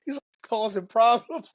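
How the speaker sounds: high-pitched mock complaint; put-on high voice; imitated couple squabble. Still mimicking the overheard couple.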